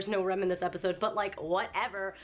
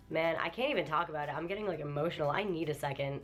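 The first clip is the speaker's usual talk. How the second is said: choked up; 4 semitones lower than usual. Real, not acted. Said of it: "I'm literally about to cry".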